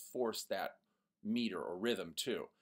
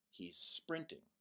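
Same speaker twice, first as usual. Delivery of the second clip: plain; 7 dB quieter, slower than usual. Shown as a demonstration. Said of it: "one word that's very powerful".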